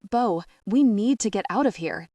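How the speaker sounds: loud, clipped command; barking. Acted. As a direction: bark the order at her. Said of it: "James barks".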